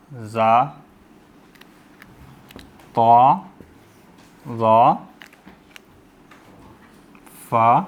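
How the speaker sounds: each letter सा, रा, फा drawn out on a long aa after a pause; slow drill, letter by letter; धीमे-धीमे हर्फ़ों के नाम; reciting letter names. Shown as a demonstration. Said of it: "वो क्या है?".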